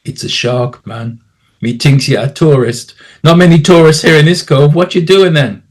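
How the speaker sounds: lightly voiced Caribbean beach local; a hint of a Caribbean islander sizing up a tourist. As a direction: play a friendly, curious islander, lightly.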